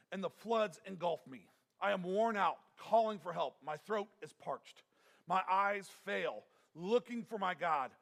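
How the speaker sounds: scripture reading. Acted. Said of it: "It says".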